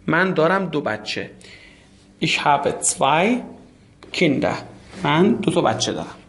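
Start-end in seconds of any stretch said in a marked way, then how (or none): 2.2-4.6 slow model answer. Shown as a demonstration. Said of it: "teacher models German answer".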